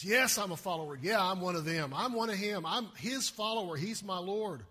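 loud, bold confession; proud declaration. Pretend. Peter standing boldly with Jesus, loud proud confession. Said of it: "To stand proudly with Jesus".

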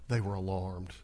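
very low, soft deadpan; absurdly calm reading; mock calm. Shown as a demonstration. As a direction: understate it, low and quiet. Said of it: "You can't even say that calmly".

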